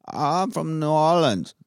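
muffled menacing villain voice; lightly voiced Bane. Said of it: "is he Bane?".

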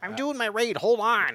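high, loud brush-off; busy gamer yell. Retold or imitated. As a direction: yell it over your shoulder mid-game. Voicing friend busy raiding.

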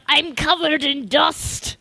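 whiny Burter. Retold or imitated. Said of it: "Burter's like".

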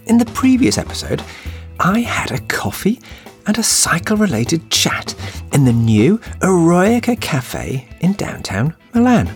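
hoarse, croaky voice after shouting; rough croaky throat, voice worn out. Real, not acted. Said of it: "apologies for my croaky voice".

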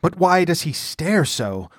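a touch of dread, not truly whispered; uneasy hushed question. A narrator's reading. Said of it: "whispered Publius".

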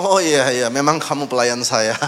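haughty, condescending tone; arrogant disciple. Acted. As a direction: talk down to a servant. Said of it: "yang satu sombong".

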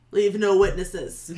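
menacing order. Acted. Lieutenant orders the killing.

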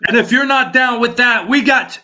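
shouted announcer intro; loud intro. Acted. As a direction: belt out a big intro. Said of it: "wrong intro".

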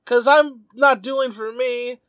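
lightly acted, slow pleading of a loser; mock distress, pleading with a rival; Espa tearful plea. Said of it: "falls to his knees in tears".

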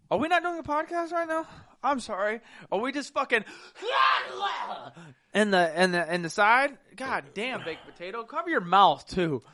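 high, laughing mock scolding. Real, not acted. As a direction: scold him while cracking up.

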